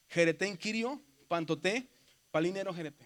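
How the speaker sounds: "Jereten kirio, pantoté" in short groups, ends lifted; Greek phrase demo. Shown as a demonstration. Teacher models the Greek words before the song, demonstrating pronunciation. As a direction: say "palinero jerete" as a closing group. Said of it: "Entonces la palabra dice".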